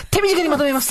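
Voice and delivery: high, hurried promise to be brief; acted fast talk. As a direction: rush it out to keep the listener. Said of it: "不美人が早口で喋るか".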